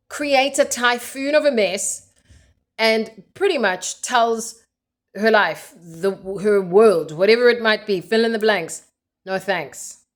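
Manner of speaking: exasperated rant, easing at the end; annoyed. Real, not acted. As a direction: let real irritation push the words out. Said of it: "Why is this annoying me so much".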